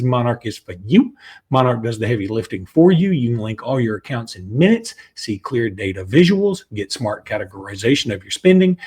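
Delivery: brisk sponsor read with a promo code; steady commercial voice. Acted. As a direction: pitch Monarch Money to listeners. Reads Monarch Money ad.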